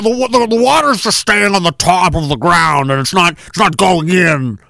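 put-on spokesman voice; hammed-up explaining voice; mock official excuse. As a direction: stumble through a silly official explanation. Official excuse acted out again.

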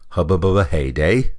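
rising, puzzled repeat of Hubba Bubba heyday; incredulous echo. Retold or imitated. Narrator repeating Stanley's odd answer, incredulous. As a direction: throw heyday back as a baffled question.

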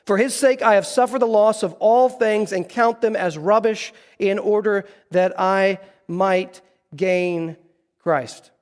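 scripture reading. Acted. Preacher reading Paul to the congregation, slow and solemn.

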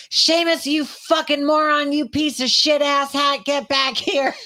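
high, loud, slow furious scream. Retold or imitated. Owner screaming at her dog running through the yard, furious and loud. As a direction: scream the dog's name across the yard. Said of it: "I'm screaming at the top of my lungs".

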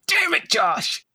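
high mock heroic shout; Flash Gordon shout. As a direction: yell it like a campy hero. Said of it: "Especially Flash going".

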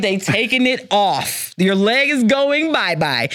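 slow, matter-of-fact taunt; a calm, drawn-out mock farewell to the leg; deadpan teasing. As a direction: rub it in slowly. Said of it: "I was like".

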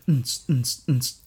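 short beatboxed thumps; mouthed club beat. Pretend. Host celebrating the episode number, beatboxing a club beat. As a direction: imitate a dance beat with the mouth.

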